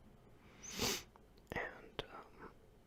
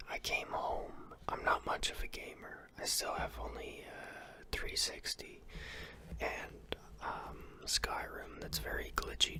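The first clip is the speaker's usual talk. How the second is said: asmr whisper. Real, not acted. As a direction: close unvoiced ASMR whisper. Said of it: "A S M R whisper about my day".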